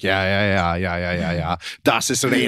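quick run of mock-German agreement. German showing a colleague the layout, mock German chatter. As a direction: imitate a German guy nodding along. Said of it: "the whole thing is in German".

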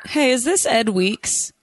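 a slow, hammed-up star-spotting question; mock recognition. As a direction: act like you just spotted a celebrity. Teasing caller as a celebrity.

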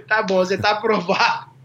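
retold approval through laughter; amused, laughing verdict. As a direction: imitate the official, chuckling as he approves. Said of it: "O cara riu".

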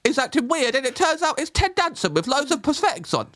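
high, laughing through the words; giggling while talking. Real, not acted.

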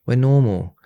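lightly put-on celebratory voice; mock cheering. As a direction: imitate a chirpy public announcement of good news. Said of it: "we'll cheer and be like".

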